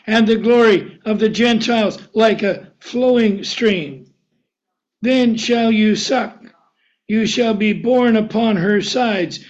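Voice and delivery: solemn Bible reading, slowing near the end; scripture reading. Acted. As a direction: read it out with weight. Reads scripture aloud.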